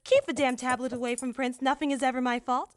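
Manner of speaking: high, precise machine voice delivering curses deadpan; prim android quoting profanity; android repeating a rude quote. Acted. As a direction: recite the insult politely like a robot. Android relays Nova's words.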